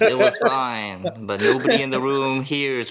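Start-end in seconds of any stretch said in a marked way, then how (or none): 0.0-1.0 slow, spooky voice from beyond; drawn-out ghost whisper-call; ghostly voice. Acted. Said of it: "this ghostly voice from beyond says".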